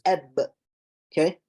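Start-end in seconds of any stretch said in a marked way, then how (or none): 0.0-0.4 "Eb" popped from sealed lips, no breath after; closed lips release. Shown as a demonstration. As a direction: stop the air, then burst "Eb". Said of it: "I can't even pronounce a letter if I don't release my lips".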